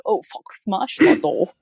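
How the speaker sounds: slow mock-angry team boss rant, a touch hammed-up; Günther impression. Podcaster imitates Drive to Survive Gunther for her co-host, mock-angry. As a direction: playfully imitate the famous swearing boss. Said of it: "Drive to Survive Gunther, who's like".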